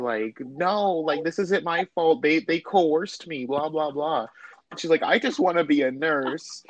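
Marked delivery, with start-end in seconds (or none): 0.4-4.3 higher-pitched mock protest; imitated losing her mind. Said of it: "she's just losing her mind". 5.0-6.6 higher-pitched mock despair; imitated losing her mind. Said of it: "she's, like, losing her mind".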